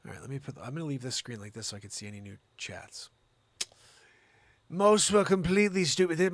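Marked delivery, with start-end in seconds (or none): 4.7-6.3 a lightly put-on English accent, Jeremy Irons style. Host putting on an English accent to read news, lightly. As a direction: try an English villain accent on the word "stupid". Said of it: "We gotta throw an English accent on for this one".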